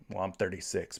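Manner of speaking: normal talking voice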